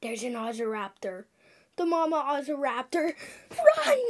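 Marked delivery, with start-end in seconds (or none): 1.8-4.0 mock panic. Fleeing the mother dinosaur.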